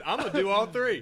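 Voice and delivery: laughing quote. Retold or imitated. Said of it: "he's the one decided".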